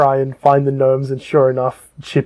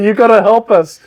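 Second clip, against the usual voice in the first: higher-pitched mock sob story; pleading gnomes; 6 semitones higher than usual. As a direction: beg for help as a little gnome. Gnomes tell their sad backstory.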